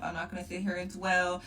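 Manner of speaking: slight lisp from wearing retainers. Real, not acted. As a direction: talk through a lisp from retainers. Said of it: "Sorry about my lisp this whole video".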